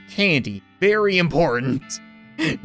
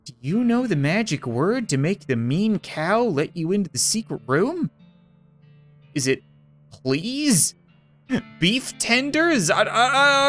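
high, singsong creepy doll voice; talking doll; 4 semitones higher than usual. Acted. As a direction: tease like a spooky child doll. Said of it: "doll speaking".

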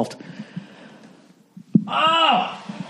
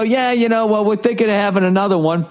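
mock casual reply; 7 semitones higher than usual. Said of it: "And then I go".

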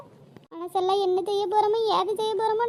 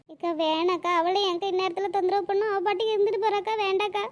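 tearful refusal. Acted. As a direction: push the comfort away, all cried out. Grieving Rani refuses company, tearful.

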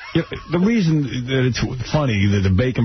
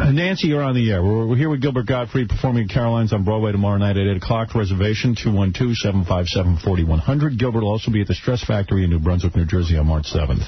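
radio host read. Acted.

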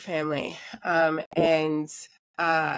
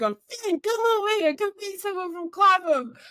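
pitched way up, hammed-up enthusiasm; excited calling over; 12 semitones higher than usual. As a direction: call a friend over in mock excitement. Retells excited man calling friend over.

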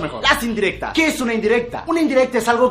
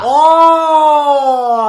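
loud, higher burst of realisation; surprised shout; 6 semitones higher, 9 dB louder than usual. Acted. Fired employee, suddenly understanding, shouting in surprise. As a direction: yelp as it finally clicks.

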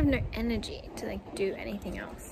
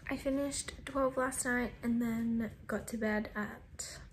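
quiet; 6 dB quieter than usual. Real, not acted. Early morning in bed.

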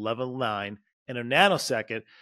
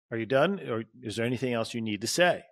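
calm and open; 2 semitones lower, faster than usual. Shown as a demonstration. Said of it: "But not in a".

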